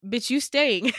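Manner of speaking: loud, punchy mock shout as mom; hammed-up mom yelling at daughter. Mom yelling in retold dream.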